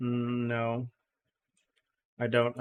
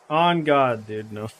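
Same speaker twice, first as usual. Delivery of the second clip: ironic zoomer; 5 dB louder, slower than usual. Pretend. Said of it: "Just gotta start talking like a Zoomer".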